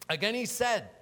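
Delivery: high, loud proclamation; loud scripture reading. Acted. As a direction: announce the next verse forcefully. Resumes reading scripture aloud.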